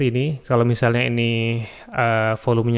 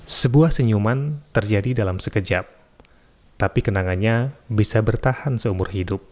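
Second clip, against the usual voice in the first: first intonation of the quote. Shown as a demonstration. Recording tutor demos a quote read, first intonation, measured. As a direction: read it like a calm quote voiceover. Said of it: "itu contoh intonasi yang pertama".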